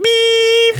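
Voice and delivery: squeaky high bleep; imitated bleep. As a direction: make the censor beep very high. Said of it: "And he's like".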